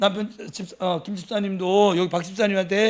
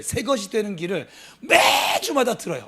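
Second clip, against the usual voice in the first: louder, crying out the climax; impassioned preaching cry; 5 dB louder than usual. Real, not acted. Preacher crying out to the congregation at the climax. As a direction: plead it out at full force.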